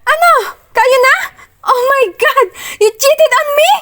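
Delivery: high, loud, tearful shouting; sob-shout the accusation; crying accusation. Acted. Heroine accusing Achilles of cheating, crying accusation. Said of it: "I accused him angrily".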